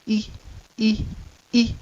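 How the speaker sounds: long vowel E sound. Shown as a demonstration. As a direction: stretch the E long. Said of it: "sign on top now".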